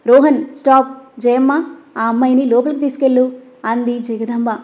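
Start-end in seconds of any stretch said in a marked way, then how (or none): 0.1-3.3 stern command. Acted. Grandmother stopping her grandson and ordering the maid, firm loud command. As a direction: cut him off like the head of the house.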